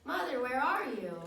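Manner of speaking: calling out for her mother, lost and scared; a loud, anxious call into the forest; crying out. Acted. Baby bat calling for her lost mother, loud and frightened. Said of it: "And she cries out".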